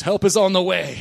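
loud, fervent revival-preacher call; Southern Baptist fervor. Shown as a demonstration. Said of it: "Pretend you're a good Southern Baptist".

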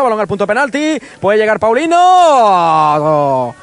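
drawn-out rising call on the chance; excited commentary. Real, not acted. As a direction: stretch the name as the chance comes.

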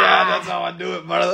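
high, loud hammed-up boast; shouting.

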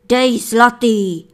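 loud, slow, bossy order; miller commanding. A narrator's reading. Miller orders his wife to drop a coin, loud and bossy. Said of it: "poroučel".

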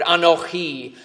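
"Anochi" as a-no-CHI, with a throaty ch; Hebrew word. Shown as a demonstration. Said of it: "the Hebrew has that word".

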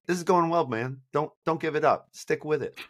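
put-on Boston accent. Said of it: "like, a Boston accent".

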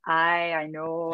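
slow, hammed-up Donegal accent; bad Donegal accent. Teen back from Donegal weekend, mock Donegal accent. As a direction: butcher a Donegal accent on purpose. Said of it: "it didn't even resemble the accent".

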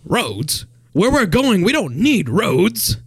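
Doc quote. Acted. Quoting Doc from Back to the Future.

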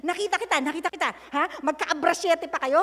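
fast accusing scold, imitating herself; hammed-up scolding of the girl with a boyfriend; retold scolding. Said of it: "Ganyan pa ako". (pinapagalitan ang disciple na may boyfriend, pabiro at mabilis)

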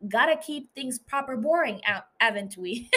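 a clumsy try at Cockney; bad Cockney accent. Danny teasing Jamie in a weak Cockney accent. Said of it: "makes a Cockney accent like Jamie".

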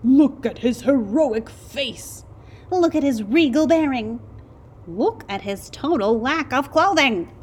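high, loud, grand praise; proud mole rats. A narrator's reading. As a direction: hype up the hero portrait. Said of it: "they demanded".

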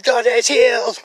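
high, loud shout of praise; jubilant yelling. Retold or imitated. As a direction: yell it out the car window. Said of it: "Just yelling it".

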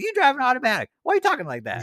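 mock snob. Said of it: "And like".

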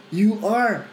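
deliberate fatherly declaration; affirming father. Retold or imitated. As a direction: assure a son, slowly and firmly. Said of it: "kata Bapa ke anaknya".

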